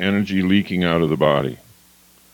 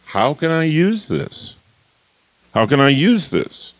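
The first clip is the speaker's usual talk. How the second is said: brisk, higher, can-do voice; upbeat owner voice; 6 semitones higher than usual. Shown as a demonstration. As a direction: sound energized and resourceful. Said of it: "the owner might say".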